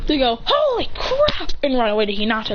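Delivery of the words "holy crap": very high, drawn-out alarm; panicked exclamation. Acted. Children running away from powered-up fighter, high panicked cry. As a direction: cry out stretched and high before fleeing.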